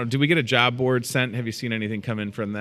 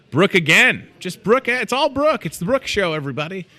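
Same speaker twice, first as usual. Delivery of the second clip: climbs higher with each Brooke; building excitement; 9 semitones higher, 5 dB louder than usual. Real, not acted. Host joking to listeners that every job is Brooke's, building higher. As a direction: pile on the joke, rising each time.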